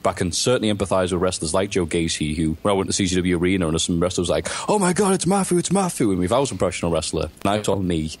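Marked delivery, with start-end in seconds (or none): 4.7-6.1 high, gushing mock squeal; hammed-up starstruck gasp; mock excited fan. Wrestlers spot him at the arena, high mock starstruck squeal.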